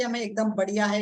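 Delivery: understated show of confidence; a touch of enthusiasm, demonstrated; mildly upbeat answer. Shown as a demonstration. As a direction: model a positive reply, lightly emphatic. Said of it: "वो लोग ये नहीं बोलते कि".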